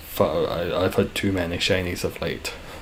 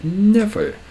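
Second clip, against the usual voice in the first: mock indignant denial; 11 semitones higher, 3 dB louder than usual. Joking denial of making things up.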